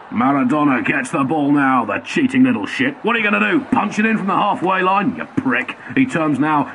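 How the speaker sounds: lightly voiced bitter commentator; ITV commentator Pernell Hinge. Commentator jeering at Maradona's run, in a light mock sneer. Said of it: "Here's I T V's man on the mic at the time, Pernell Hinge".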